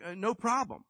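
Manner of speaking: high, loud, breezy mom voice; mom's easy answer. Retold or imitated. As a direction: toss it off like an easygoing mom. Mom answering son's shoe request.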